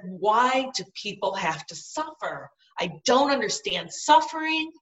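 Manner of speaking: recalling a frustrated demand to God; mildly heated, emphatic protest; mad at God. Retold or imitated. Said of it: "And I was mad".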